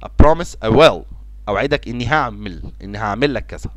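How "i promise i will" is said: slow, louder, with the stress on will; slow model phrase. Shown as a demonstration. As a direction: lean on will slowly. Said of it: "بيجي معاها will".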